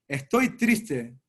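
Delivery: slow, low, downcast voice; sad confession. Acted. Son admits to his father why he is crying, slow and sad. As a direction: let each word drag out heavily in sorrow.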